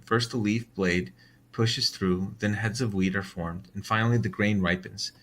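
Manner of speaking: measured, steady Bible reading; scripture reading. Acted. Reading the Gospel parable to his viewers in a steady voice. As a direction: read the parable calmly and evenly.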